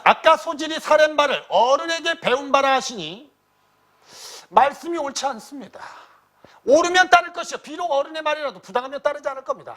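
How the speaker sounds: high-pitched, forceful declamation; loud voice. Acted. Nephew answering his uncle's suspicion, loud voice. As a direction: pitch it up high and argue back loudly. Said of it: "큰 소리로 이렇게".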